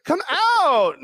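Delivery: high, loud coaxing call; mock girly plea. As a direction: call out like an eager girl. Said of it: "I'm like".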